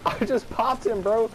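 high, drawn-out laughing boast; gleeful laughing. Real, not acted. Gamer has just hit an opponent, gleefully laughing. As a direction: crow it through laughter.

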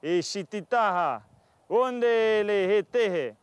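drawn-out, slow mock chant of made-up words; slow made-up tribal speech; mock Indian language. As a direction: sound out the captors' strange talk, slowly. Indian captor talking in tongue.

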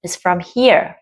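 "here" stressed. Shown as a demonstration. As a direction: land on "here". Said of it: "từ here". (nhấn vào "here")

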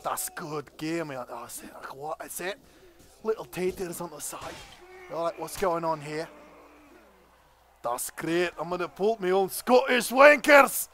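hammed-up Scottish accent; a rowdy Scot swearing at the game in a Scottish accent; comic Scottish accent, lightly voiced. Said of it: "Let's try to be a bit of Scottish".

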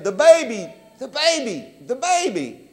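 put-on worker's frantic cry about the baby. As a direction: cry it out in a panic, again and again. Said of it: "it's almost like a frantic sound".

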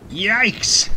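sudden high yelp of fright; high startled yikes. Real, not acted. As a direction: jump at the lightning bolt. Lightning strike on the ship.

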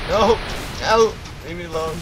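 high, loud raging yell; raging gamer. Real, not acted. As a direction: scream at the attacker. Caught as spy, raging.

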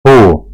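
"Hu" with the u held long; lengthened vowel. Shown as a demonstration. Teacher showing students the long letter, "Hu" held long. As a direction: draw out the vowel in "Hu". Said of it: "Hu diye uzatıyoruz".

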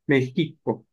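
México with a rough j sound; Spanish México. Shown as a demonstration. Teacher showing how Spaniards changed Mexicu. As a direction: say México with a throaty j. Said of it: "terminan diciendo México".

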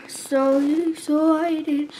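slow low sung line; deep voice. Shown as a demonstration. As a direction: drop into a deep voice. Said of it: "I go deep voice".

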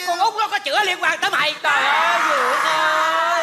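overacted tearful outburst; comic wailing. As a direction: wail in mock despair, dragging the last words. Uncle wails as secret slips out.

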